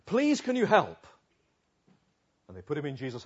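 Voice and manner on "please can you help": higher, louder, slow begging; desperate pleading. Retold or imitated. Friends begging Jesus to heal the deaf man, pleading. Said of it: "they're pleading".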